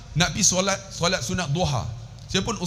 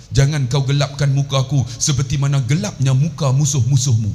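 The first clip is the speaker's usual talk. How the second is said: prayer recitation; 4 semitones lower than usual. Acted. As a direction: recite the dua deliberately, full-voiced and low. Recites ablution supplication and translation.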